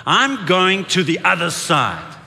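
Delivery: emphatic, facing down a storm; defiant declaration. Shown as a demonstration. Preacher daring the church to face the storm, defiant declaration. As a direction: say it like a dare to the storm. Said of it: "look the storm in the face".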